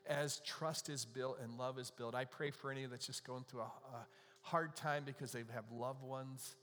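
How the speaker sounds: earnest public prayer, evenly paced. Real, not acted. Pastor praying over the lonely in the congregation, earnest and subdued. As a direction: lead a heartfelt prayer in a restrained tone.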